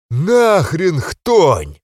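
slow loud crowd chant; скандирование толпы. A narrator's reading. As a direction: chant it like a whole roaring hall. (толпа скандирует, протяжно и громко)

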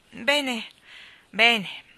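brisk, loud self-rallying words; decisive. A narrator's reading. Starling rousing himself to leave, decisive. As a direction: pull yourself together out loud. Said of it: "si riscosse con decisione".

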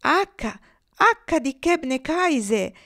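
high, loud and slow calling; shouting. A narrator's reading. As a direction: cry out to the leader. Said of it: "gridarono le oche di coda".

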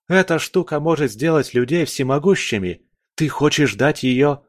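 взволнованно, повышенным голосом; спорь горячо, с недоверием; горячее возмущение. A narrator's reading. Малик возмущённо спорит с Олегом. (возмущённо, на повышенных тонах)

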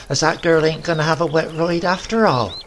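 a touch of grudging hope; grandmother. A narrator's reading. Grandmother hoping for dry weather, lightly voiced.

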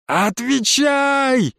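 drawn-out high yell; yelled demand. A narrator's reading. Boy yells at the witch to answer, long drawn-out yell. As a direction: roar the word out long. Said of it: "заорал я".

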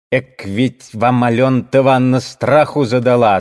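loud, lively gossiping woman; rapid chatter. Acted. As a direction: rattle it off eagerly. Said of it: "затараторила жена торговца".

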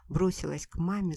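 ordinary delivery

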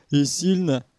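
understated sympathy; sympathetic. A narrator's reading. Abram Yakovlevich asking after the beaten boy, mildly sympathetic. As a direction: ask with gentle concern, not pushed. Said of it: "поинтересовался сочувственно".

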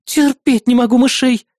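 high, sarcastic nosy neighbour; mocking neighbour. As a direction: sneer at the princess. Neighbour scared of rat.

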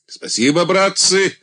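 high, loud grateful shout. A narrator's reading. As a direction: shout thanks to the troops. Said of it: "крикнул Андрей".

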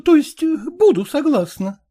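a hint of a brisk, frank young lady; lightly voiced young woman. Young woman coolly tells her suitor to speak plainly.

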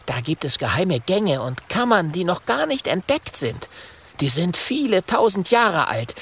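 put-on young dragon Kokosnuss. A narrator's reading. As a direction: voice the little dragon telling his secrets. Kokosnuss explains the pyramids.

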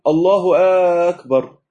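"الله" and "أكبر" split by a pause; wrong broken takbir. Shown as a demonstration. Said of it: "ما ينفعش نقول".

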